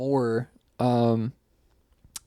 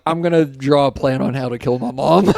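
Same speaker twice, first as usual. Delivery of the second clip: giggling while quoting; words broken by laughter; laughing through words; 6 dB louder than usual. Retold or imitated.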